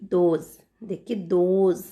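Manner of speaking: दोज starting with a voiced द. Shown as a demonstration. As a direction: draw out दोज for learners, opening on द. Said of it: "द का sound आ रहा है".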